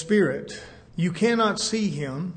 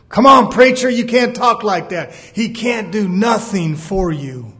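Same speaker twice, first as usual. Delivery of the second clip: mock protest; 7 dB louder than usual. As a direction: shout a shocked objection. Objector protests the preacher.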